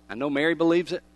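hushed, halting words with firm finality; quiet refusal. Acted. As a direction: refuse gently, fading to a near whisper. Voicing Carol's quiet refusal.

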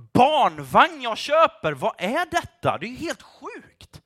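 high, incredulous outburst; worked-up disbelief; exasperated disbelief. Acted. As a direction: start loud and high, baffled by the absurdity. Mocking his own status worries.

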